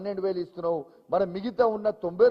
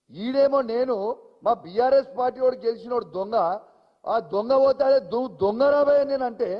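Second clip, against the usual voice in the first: heated shout; 4 semitones higher, 3 dB louder than usual. Real, not acted. Angry protest against the arrest.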